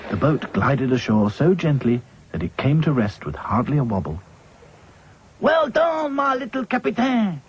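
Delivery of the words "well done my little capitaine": put-on high, fond French accent. A narrator's reading. Claude praises captain Dotty in French accent. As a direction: praise her with French charm. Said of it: "said Claude".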